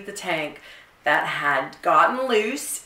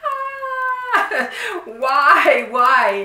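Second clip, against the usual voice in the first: much higher, louder, laughing disbelief; exasperated why; 9 semitones higher, 6 dB louder, much slower than usual. Retold or imitated. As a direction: throw up your hands, laughing why why. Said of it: "and I'm like".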